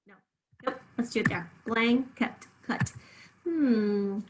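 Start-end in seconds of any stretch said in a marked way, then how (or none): 1.7-2.9 "Blanket" with a schwa, then "cut" isolated; schwa in second syllable. Shown as a demonstration. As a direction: sound out "Blanket" ending like "cut". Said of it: "Do you hear the schwa there?".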